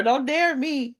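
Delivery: quick playful don't dare me, falling at the end; sassy warning. Real, not acted. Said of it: "Do it if you dare".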